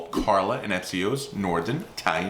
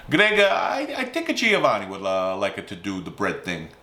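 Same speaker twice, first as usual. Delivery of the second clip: put-on dad's Italian accent; 2 semitones lower than usual. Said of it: "my dad's accent".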